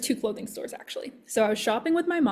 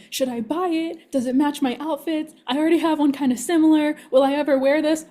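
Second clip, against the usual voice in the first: higher, anxious mock-mom voice, louder toward the end; a daughter playfully imitating her worried mother; mimicking fretting mom; 4 semitones higher, 4 dB louder than usual. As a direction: fret over a sixteen dollar shirt like her mom.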